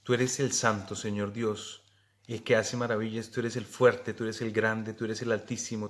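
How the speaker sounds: steady, devout litany of praise; fervent prayer. Acted. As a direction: pray it aloud, each line a new praise. Recites the praises of God.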